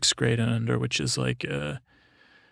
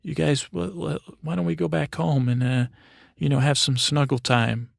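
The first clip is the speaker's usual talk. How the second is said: mock parent voice; 3 semitones higher than usual. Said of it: "and then say".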